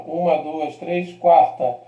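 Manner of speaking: Uma, duas, três, quarta counted out slowly, tapping each; counting syllables slowly. Shown as a demonstration. Teacher counts syllables slowly for students, each beat marked. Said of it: "Anterior à antepenúltima".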